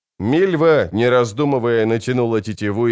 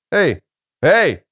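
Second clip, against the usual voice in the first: calling out; 5 semitones higher, 4 dB louder than usual. A narrator's reading. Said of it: "крикнул он слугам и акалитам".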